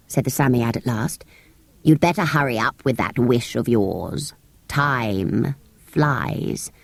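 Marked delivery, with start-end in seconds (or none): 1.8-6.7 low, gruff warning; low creature voice. A narrator's reading. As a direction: hurry him along in a deep creature growl. Samiad urges Robert.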